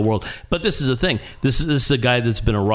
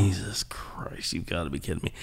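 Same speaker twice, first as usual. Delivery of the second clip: whispered dismay; 4 semitones lower, 11 dB quieter than usual. Retold or imitated. To himself as the rock star offers breakfast, whispered dismay. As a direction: breathe it out in disbelief.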